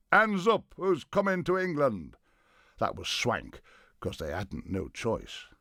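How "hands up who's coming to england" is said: high, loud rallying call; big commanding shout. A narrator's reading. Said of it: "lifted his big Norman voice, shouting".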